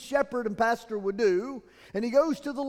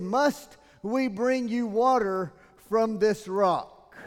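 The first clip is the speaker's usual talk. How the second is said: slow angry shout; 3 semitones higher, 6 dB louder, much slower than usual. Acted. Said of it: "He shouts it".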